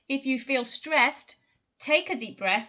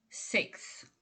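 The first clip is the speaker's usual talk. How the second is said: whispered; 3 semitones lower, 8 dB quieter than usual. Shown as a demonstration. Pronunciation model word.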